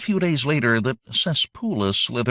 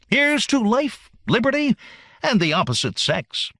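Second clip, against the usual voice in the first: grand toast; 7 semitones higher, 3 dB louder than usual. Acted.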